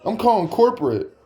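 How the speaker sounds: very high, mock-outraged threat; indignant insistence. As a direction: insist high-pitched, playing the wronged customer. Insisting, threatening to call corporate.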